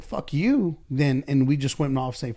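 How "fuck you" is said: higher, mildly louder retort; snapping back. Retold or imitated. Boss acts a hostile reply to a critic, mock snapping retort. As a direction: fire it back in anger. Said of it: "if you said".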